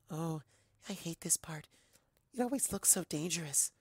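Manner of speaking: soft, hushed shy pony voice; timid and fearful. Acted. Fluttershy covering her eyes, soft and timid. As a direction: shrink away from the danger.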